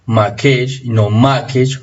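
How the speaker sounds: slow, first Makesh stressed on the last syllable, the second on the first; stress contrast demo. Shown as a demonstration. Teacher slowly contrasting right and wrong stress of Makesh. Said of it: "Eso se lee".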